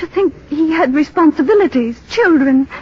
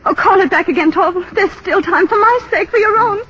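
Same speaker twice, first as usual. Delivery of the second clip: higher, urgent begging on the edge of tears; desperate pleading; 6 semitones higher than usual. Acted. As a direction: plead with him, voice close to breaking. Nora begs husband, near hysteria.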